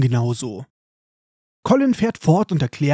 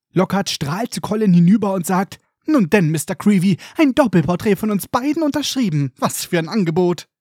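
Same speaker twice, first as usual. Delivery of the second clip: a touch of a grand showman; lightly voiced pompous Lockhart. Lockhart barges in on the students, lightly pompous. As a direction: boom like a vain celebrity teacher. Lockhart takes over the scene.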